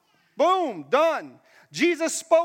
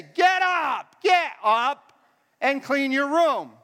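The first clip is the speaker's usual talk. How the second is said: exasperated parent shouting; 3 semitones higher, much slower than usual. Acted. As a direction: yell it at a dawdling kid. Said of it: "What do you say?".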